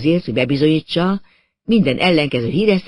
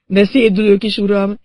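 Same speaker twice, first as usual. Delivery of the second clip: higher, louder whining butler; complaining; 6 semitones higher, 6 dB louder than usual. A narrator's reading. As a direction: moan about your dizziness. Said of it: "panaszkodt tovább Edward".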